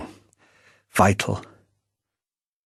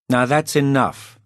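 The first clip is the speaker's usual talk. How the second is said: barked; 6 semitones higher than usual. A narrator's reading. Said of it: "barked Playfair".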